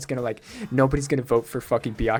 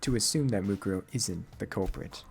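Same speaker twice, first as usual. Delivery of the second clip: low, measured character voice; stern, aloof game character; 5 semitones lower, 5 dB quieter than usual. Acted. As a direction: argue coolly in a lowered voice. Low figure voice reasoning in game.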